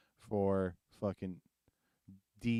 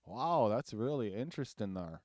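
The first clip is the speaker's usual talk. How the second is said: put-on Res accent. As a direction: imitate a Native reservation lilt. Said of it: "they got the Res one".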